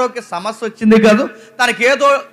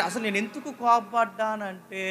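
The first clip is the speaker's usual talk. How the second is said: slow, softer, stretched-out self-justifying tone; drawn-out excuse; 12 dB quieter than usual. Retold or imitated. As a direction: drag the words out like a lame excuse. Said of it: "అని సాగదీస్తా చూసావా". (సాగదీస్తూ చెప్పే సాకు)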